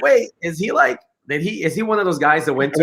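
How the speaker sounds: high puzzled wondering. Retold or imitated. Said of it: "I was like".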